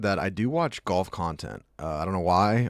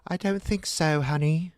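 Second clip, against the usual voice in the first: high, sweet mock British wife; Sharon Osbourne; 8 semitones higher than usual. Wife answering her husband about the beers, high-pitched impression. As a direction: put on a higher British wifely voice. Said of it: "Sharon Osbourne".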